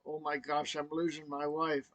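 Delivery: softly, as a thought to oneself; quiet aside to yourself; saying to himself. Retold or imitated. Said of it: "I'm saying to myself".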